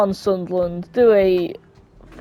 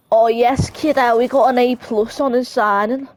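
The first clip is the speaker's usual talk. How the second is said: playful mock Scouse delivery; put-on Scouse accent; 3 semitones higher than usual. Gamer voicing a club's reaction to the signing, mock Scouse. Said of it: "giving everyone a Scouse accent".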